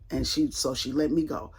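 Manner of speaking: soft whispered aside; relieved whisper. Real, not acted. Telling the listener she got let go, whispered. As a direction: breathe it out in relief. Relief after being released.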